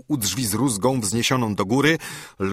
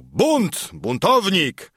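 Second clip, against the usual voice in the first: much higher, ringing accusation; outraged cry; 9 semitones higher, 3 dB louder, much slower than usual. A narrator's reading. Angry major denounces his attacker as rebel, outraged cry. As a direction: cry out the alarm, pitch leaping up. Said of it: "zawołał".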